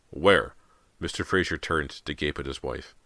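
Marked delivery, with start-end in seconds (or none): 0.1-0.6 surprised shout. A narrator's reading. Father startled by scream.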